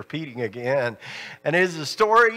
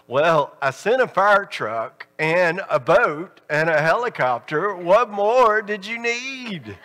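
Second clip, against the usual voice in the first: puzzled; 3 semitones higher than usual. Retold or imitated. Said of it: "in a very puzzled voice".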